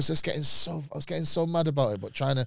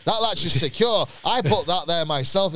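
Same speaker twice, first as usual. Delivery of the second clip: mildly indignant, higher-pitched insistence; indignant retort; 4 semitones higher, 3 dB louder, slower than usual. Retold or imitated. Hotel owner defending his latch, mock indignant. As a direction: insist on it, slow and emphatic.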